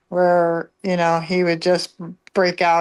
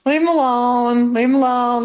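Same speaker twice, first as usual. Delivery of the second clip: higher, pleading reproof; mild mock scolding; 4 semitones higher than usual. Telling the boys to stop pestering him, mild retold scolding. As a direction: gently call off the pestering kids.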